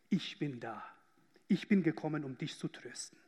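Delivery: gentle Jesus voice. Pretend. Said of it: "sagt dir Jesus".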